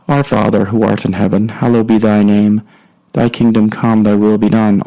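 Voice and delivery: steady, measured recitation of the Lord's Prayer; leading listeners in the Our Father. Acted. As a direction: pray it aloud, reverent and even.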